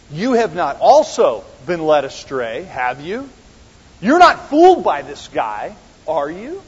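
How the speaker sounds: leading tag questions, lifted at the end; manipulative. Acted. Leaders working on the officers, manipulative. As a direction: press them with a manipulative question. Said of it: "talk to you like that".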